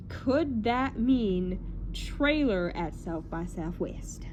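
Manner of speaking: slow, slipping into a British accent; slight British accent. Real, not acted. Wondering about a London trailer, slight British accent. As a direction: drift into a light British lilt, drawn out. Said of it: "it's British".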